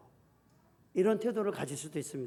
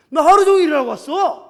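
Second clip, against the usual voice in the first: husband's angry retort; 9 semitones higher, 17 dB louder than usual. Retold or imitated. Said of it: "불이 막 일어나는 거야".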